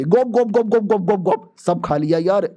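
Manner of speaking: comic gulp sounds in a row; mock swallowing sounds; gulping noises. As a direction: gobble the pills noisily. Hero gulping down pills.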